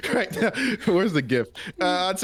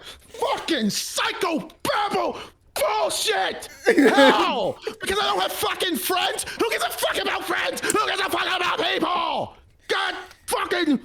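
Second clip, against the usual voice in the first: high laughing rant; high-pitched mock meltdown; ranting crash out; 11 semitones higher than usual. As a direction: rage at everyone, half laughing. Player voices Ransom crashing out.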